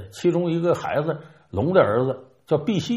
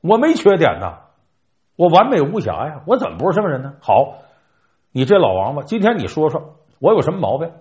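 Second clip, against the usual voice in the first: hammed-up affront, louder on the boasts; mock indignant outburst; 3 dB louder than usual. Guan Gong, stung by the turtle's charge, answers in hammed-up indignation. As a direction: bristle like an offended proud general. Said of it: "关公就急了".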